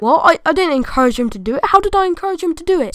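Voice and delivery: fast, rising indignant disbelief; accused kid pleading to head teacher, indignant; indignant protest. Retold or imitated.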